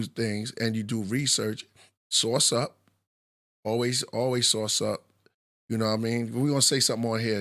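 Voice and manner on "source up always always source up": New York accent. Real, not acted. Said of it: "Sounds like you're saying sauces in, in a New York accent".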